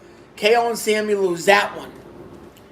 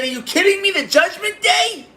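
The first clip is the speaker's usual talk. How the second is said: retold outburst; 9 semitones higher than usual. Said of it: "I said".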